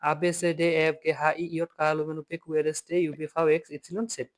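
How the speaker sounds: আ বে সে ডে said fast and without stopping; in one breath. Shown as a demonstration. Teacher rattling off the German alphabet in one breath. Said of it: "আমি যদি বলি".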